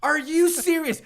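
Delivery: high, disbelieving outburst; mock outrage at the movie; incredulous. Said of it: "I'm like".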